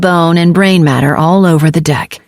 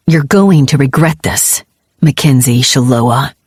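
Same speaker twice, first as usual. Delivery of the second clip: growling; 4 semitones lower than usual. Acted. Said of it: "Benning growled".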